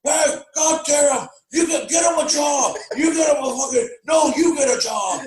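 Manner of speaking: high, hammed-up angry shouting; imitated high-pitched yelling argument; mock dad tirade. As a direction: rant like a furious movie dad. Acts out the dad's tirade.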